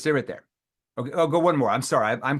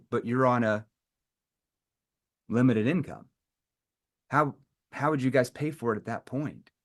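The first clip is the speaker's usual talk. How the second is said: consequence question. Shown as a demonstration. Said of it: "that's a consequence question".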